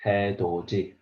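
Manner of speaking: 해도 D read as haedoji with a J sound; 해도 D said with the D turned into J; model pronunciation. Shown as a demonstration. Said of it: "So we read".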